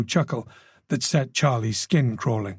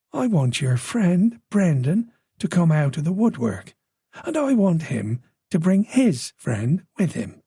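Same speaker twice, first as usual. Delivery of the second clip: put-on Irish accent; 3 semitones higher than usual. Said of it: "An Irish accent".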